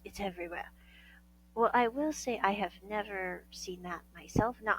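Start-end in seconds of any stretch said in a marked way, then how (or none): 0.0-0.7 hushed whisper. Real, not acted. Sensitive topic lowered.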